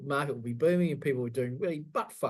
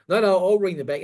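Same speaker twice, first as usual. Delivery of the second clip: panicked husband; 3 semitones higher, 7 dB louder than usual. Retold or imitated. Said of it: "he goes".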